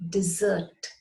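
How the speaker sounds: "dessert" as dih-ZERT, stress on the end; second-syllable stress. Shown as a demonstration. Teacher introduces the third word, "dessert" said as dih-ZERT. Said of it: "which is pronounced".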